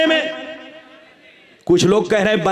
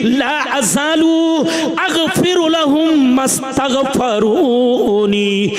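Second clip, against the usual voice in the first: Arabic hadith recitation. Acted.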